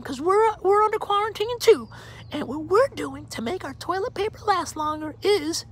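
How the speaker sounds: very high, put-on Savannah accent voice; a falsetto Savannah accent, played for laughs. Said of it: "In my best Savannah accent".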